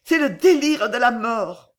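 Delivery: high, loud cry of dread; terrified. A narrator's reading. Violetta at the deathbed delirium, high and terrified. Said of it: "murmura Violetta épouvantée".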